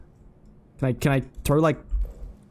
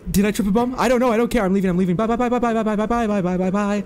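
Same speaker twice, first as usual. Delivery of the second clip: being chased; 5 semitones higher, faster than usual. Real, not acted. Fleeing the monster.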